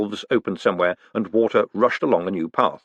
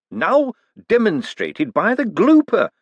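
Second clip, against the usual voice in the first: awed, higher, slow and hushed; breathed in awe; 9 semitones higher, 3 dB louder, slower than usual. Acted. Hubert awed by Moist's praise, breathless. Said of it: "Hubert breathed".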